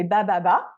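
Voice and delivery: "ba, ba, ba" as even, low babbled syllables; babbling demo. Shown as a demonstration. Researcher showing listeners what a child's babbling is, babbling demo. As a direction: imitate baby babble, syllable after syllable. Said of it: "je viens de faire une production de babillage".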